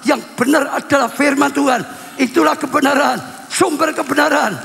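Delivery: emphatic preaching, building in force; khotbah. Real, not acted. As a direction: drive the exhortation home to the congregation. (khotbah tegas yang makin bersemangat)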